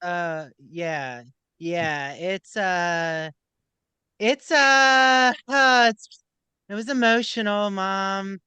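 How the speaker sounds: a hint of an awkward Brooks fumbling for words; playing Brooks. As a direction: hem and haw like a flustered son dodging his mom's questions. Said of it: "I'll be Brooks".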